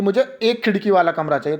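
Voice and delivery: emphasise एक खिड़की as the point of the request; stress on एक खिड़की. Shown as a demonstration. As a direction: bear down on एक खिड़की, lighter afterwards. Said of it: "लेकिन जब मैं बोलूँगा".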